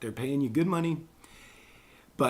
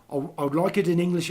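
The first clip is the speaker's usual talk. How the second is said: put-on English accent, quicker and higher; 4 semitones higher, 4 dB louder, much faster than usual. Pitching a voiceover to a client, English accent. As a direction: say it in a lightly hammed English accent. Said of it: "I like that English accent".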